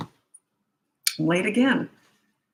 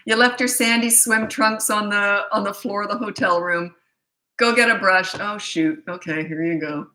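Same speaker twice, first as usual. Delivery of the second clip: playful mock scolding. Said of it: "I would have said".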